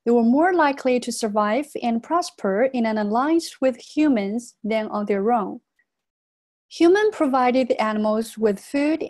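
measured model reading for students; read-aloud demonstration. Shown as a demonstration. Teacher reads the passage aloud for the class, measured model reading. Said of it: "我先给大家来朗读一遍哈".

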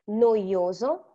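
NOIOSO drawn out with each vowel sounded; all vowels pronounced. Shown as a demonstration. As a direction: slowly say no-i-o-so, every vowel audible. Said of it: "I'm pronouncing all the vowels".

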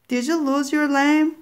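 high, coaxing voice of a disguised witch; a sly old witch luring the girl through the door; witch's voice. Acted. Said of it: "asked the voice outside".

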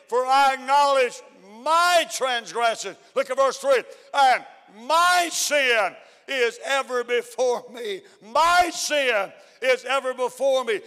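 drawn-out, ringing scripture; scripture reading. Acted. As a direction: proclaim each verse slowly to the church. Reading psalm to congregation.

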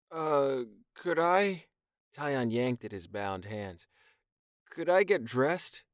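high, unsure asking; embarrassed young man, pitched high; hesitant request. Acted. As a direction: ask sheepishly after the scene. Tyon shy request.

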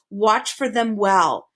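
slow, weighted "Watch for them well"; "Watch for them well" drawn out with emphasis; emphatic warning. A narrator's reading. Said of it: "he emphasized".

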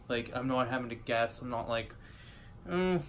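glass at the lips; talking between sips; sipping from a glass. Real, not acted. Seen 0: Beer glass held at lips, sipping, from start until 3.5s.

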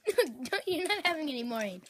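loud, sharp no to a cousin; shouting. Real, not acted. Stopping Abe taking more gum.

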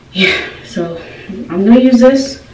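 breathless, short of air; talking while catching breath. Real, not acted. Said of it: "Hold on, I'm out of breath".

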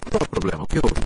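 taken aback, demanding what happened; astonished exclamation. A narrator's reading. Sir Henry arrives at the pool and demands what happened, astonished. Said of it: "exclamou atônito".

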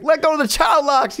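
high imitated diva protest; hammed-up, worked-up order; mock demanding. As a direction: demand release, playing up the frenzy. Acts diva trapped by child locks.

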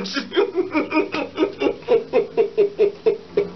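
long high staccato giggle; helpless laughing. Real, not acted. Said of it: "It's not funny".

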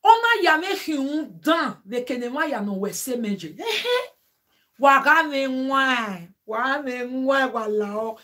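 retold wailing, stretching the words; imitated woman's cry. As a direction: act out a pregnant woman's plaintive cry. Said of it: "the cry of this woman".

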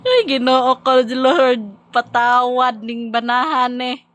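loud, high laughing cry to God; laughing plea. Real, not acted. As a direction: plead to the Lord while cracking up. Mock plea to God amid laughter.

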